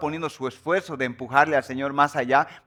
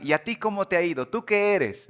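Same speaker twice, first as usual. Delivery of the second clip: challenging self-question; 6 semitones higher than usual. Acted. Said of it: "y después preguntarme".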